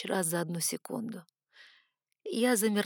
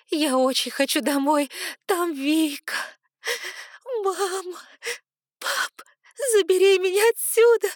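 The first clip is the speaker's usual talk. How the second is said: much higher, louder, building to a wailing scream; hysterical pleading; 10 semitones higher, 6 dB louder than usual. Acted. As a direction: break into hysterics begging to be taken home. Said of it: "Истерика вырывалась хриплым голосом". (истерика: дочь всё выше и громче умоляет отца забрать её)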